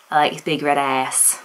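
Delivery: badly faked American accent; clumsy mock American accent; terrible American accent. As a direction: have a poor go at sounding American. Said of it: "the worst American accent I could ever have done".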